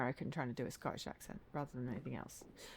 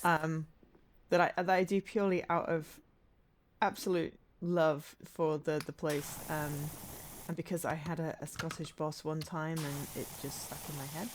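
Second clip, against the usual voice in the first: put-on terrible Scottish accent; 5 dB louder than usual. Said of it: "my terrible Scottish accent".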